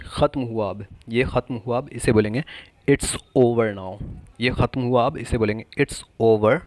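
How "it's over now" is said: stretched, deliberate teaching delivery; slow model phrase. Shown as a demonstration. Teacher gives the English translation, slowly. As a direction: draw out each word for learners.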